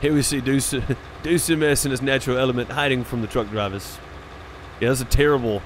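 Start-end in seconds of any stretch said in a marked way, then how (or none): 0.0-4.0 a mild, clumsy attempt at an Australian nature-documentary voice; bad Aussie accent. Streamer to his chat, mocking a hiding friend in a weak Aussie accent. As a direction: try an Aussie accent and barely get there. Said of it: "a terrible, uh, Aussie accent".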